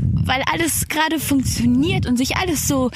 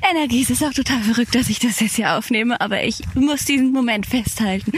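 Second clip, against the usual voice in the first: talking on the move outdoors; while running. Real, not acted. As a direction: speak while jogging along. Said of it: "Ich lauf gerade draußen".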